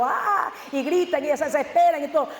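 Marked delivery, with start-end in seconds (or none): 0.0-0.5 mock fan yell. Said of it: "estar gritando".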